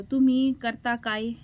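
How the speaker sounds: तुमी करता काय said slowly with the words in the wrong order; slow learner's तुमी करता काय; jumbled Marathi. Retold or imitated. Bride mixing up the word order, slow learner's Marathi. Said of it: "ऐसा बोलती थी मैं".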